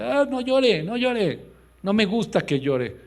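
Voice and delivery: high, loud scornful husband; mocking husband telling his wife not to cry. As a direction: mimic a dismissive husband scolding his crying wife.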